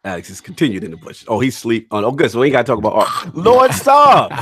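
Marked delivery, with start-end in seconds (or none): 3.3-4.3 loud, high, laughing plea; laughing protest. Real, not acted. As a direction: cry out through real laughter.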